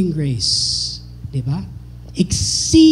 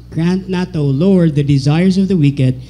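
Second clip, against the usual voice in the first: responsive scripture reading. Acted. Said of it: "We're gonna focus at that verse".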